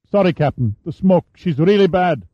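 put-on a teenage boy reporting up; adolescent voice. A narrator's reading. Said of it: "The voice had an adolescent pitch".

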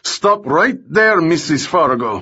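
villain barking at Remy; barked order. Acted. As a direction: bark it at her to freeze. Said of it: "Bondaruk barked".

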